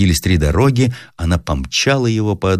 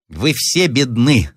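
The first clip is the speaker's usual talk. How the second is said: higher, slow squeak; squeaky; 7 semitones higher, slower than usual. Acted. Italian soldier grabbing Roslavlev, squeaky and slow. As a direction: squeal it mockingly. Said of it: "запищал итальянский вольтежёр".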